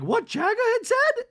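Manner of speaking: very high, loud mock question; Dorit. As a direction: squeal it in a put-on falsetto. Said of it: "And Dorit's like".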